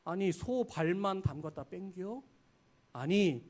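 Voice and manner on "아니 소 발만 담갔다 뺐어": softer Chungcheong repeat rising on 뺑겨; worldly critic in mild Chungcheong dialect; mild Chungcheong jab. Retold or imitated. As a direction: quietly tease like a country elder. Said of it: "뼈 있는 말들을 우리에게 해요".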